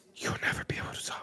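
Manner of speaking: hushed whisper right against the ear. Narrating a scene, the speaker has a character pull the listener close and whisper in their ear. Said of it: "he whispers in your ear".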